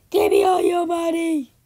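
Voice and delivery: put-on loud, bossy robber girl; loud demand. A girl demands all the angel's money.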